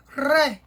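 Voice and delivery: ré alone with an open E; stressed syllable. Shown as a demonstration. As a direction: isolate ré firmly. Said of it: "Sílaba tônica é o ré".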